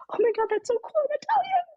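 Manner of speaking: put-on breathless high whisper of delight, Southern accent-free; excited whisper. Learning her DNA results, she whispers in thrilled disbelief. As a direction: gasp it out, thrilled and hushed.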